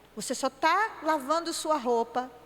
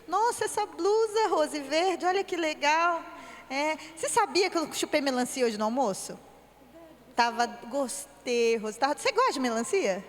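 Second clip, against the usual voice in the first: friendly conversation demo. Shown as a demonstration. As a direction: greet a friend warmly and chatter. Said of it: "Agora presta atenção". (conversa animada com uma amiga)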